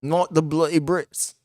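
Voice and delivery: slow, soft mock British "Not the bloody Brits"; mock British accent. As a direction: drawl it like a mocking Brit. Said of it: "weirdest fucking accent".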